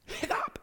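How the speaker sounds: sudden squeaky gulped hiccup; short hiccup catching in the throat; imitated hiccup. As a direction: mimic a sharp hiccup. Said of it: "And I hiccuped".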